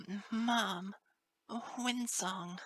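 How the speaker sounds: high, halting distressed colt; desperate sobbing. A narrator's reading. Colt fearing for his mother, high sobbing stammer. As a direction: stammer it as if between sobs. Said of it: "between desperate sobs".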